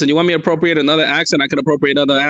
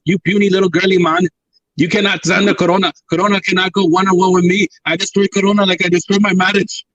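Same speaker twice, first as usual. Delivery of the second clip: badly faked Austrian-accented strongman governor; Schwarzenegger; 2 semitones higher than usual. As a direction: boast in a mock Austrian accent. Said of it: "All right, Schwarzenegger".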